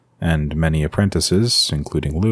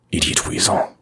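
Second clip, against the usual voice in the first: whispered inner scorn; inner thought. A narrator's reading. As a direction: hiss the insult silently to himself. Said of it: "he thought".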